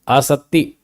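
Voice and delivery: आसक्ति with a held double t and no k; doubled t. Shown as a demonstration. Teacher giving the corrected term, doubled t. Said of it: "त, त double".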